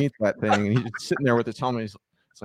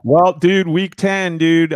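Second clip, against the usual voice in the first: excited; 7 semitones higher, 4 dB louder, much slower than usual. Real, not acted. Hyped show segment opener.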